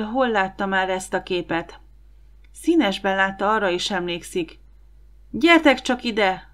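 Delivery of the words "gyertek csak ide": higher, louder, slow call across the room; a drawn-out, loud come-here; calling over. A narrator's reading. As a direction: summon the others from afar. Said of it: "hallották Don hangját".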